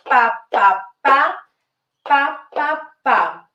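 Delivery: short vocal pa beats marking the steps; beat syllables. Shown as a demonstration. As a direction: tap out the rhythm with your voice, pa by pa. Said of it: "One, two, one".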